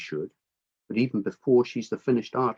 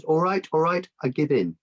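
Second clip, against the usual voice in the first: giving in; 6 semitones higher than usual. Acted. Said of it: "Eventually she says".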